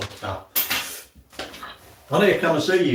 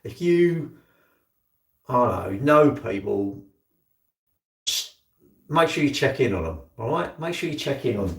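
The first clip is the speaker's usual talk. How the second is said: serious. Real, not acted. Urging viewers to check on friends, sincere and serious. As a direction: speak straight from the heart. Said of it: "I'm being serious now".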